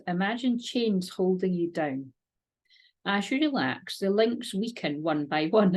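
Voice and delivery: slow, calm script reading; guided meditation reading. Acted. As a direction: read the meditation gently and slowly.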